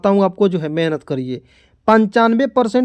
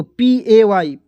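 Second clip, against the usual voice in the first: slow spelling; much slower than usual. Shown as a demonstration. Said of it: "इस तरह से लिखेंगे".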